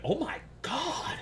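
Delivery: high, slow disbelief; shocked. Retold or imitated. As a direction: let it rise in pure shock. Shocked by waitress snapping.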